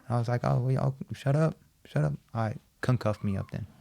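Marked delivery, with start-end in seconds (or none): 0.4-2.1 mocking echo. Mocking guard's shut up.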